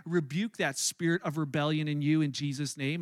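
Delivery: low, commanding imitation of mom; stern mother's rebuke. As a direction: cast it out like a solemn exorcist. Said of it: "looks at me straight in the eye and she points".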